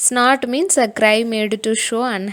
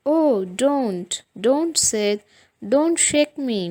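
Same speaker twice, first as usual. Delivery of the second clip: mock moaning; 4 semitones higher, 3 dB louder, much slower than usual. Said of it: "Tom mourned out".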